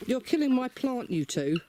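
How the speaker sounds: high-pitched protest, "killing" stretched high; exasperated outcry. Real, not acted. Scolding hens digging plant.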